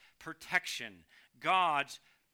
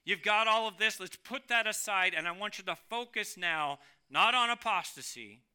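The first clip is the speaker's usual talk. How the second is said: louder urging call to focus; paraphrased voice of Jude; 4 dB louder than usual. Pretend. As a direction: rouse the listeners to attention. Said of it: "It is really saying".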